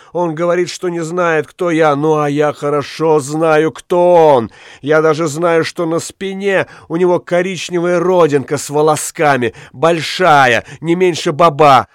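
high, eager telling on him; excited accusation. Acted. Witch exposing her lover to the judges, high and eager. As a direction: gloat over what you know, high.

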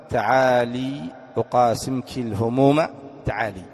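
slow recited verse; slow reading of Abu Firas's line, lingering on الهموم; poetry recital. Retold or imitated. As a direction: chant the verse slowly like classical poetry. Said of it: "أبا فراس الحمداني عندما قال".

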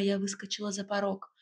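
ordinary delivery, nothing marked

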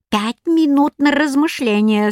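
put-on old woman creaking out a deadline; creaky old woman. A narrator's reading. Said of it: "скрипела старуха".

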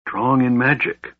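a touch of dread, half-whispered; fearful whisper. A narrator's reading. Alhana beside the sleeping mage, fearful whisper. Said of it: "whispered in a voice filled with fear".

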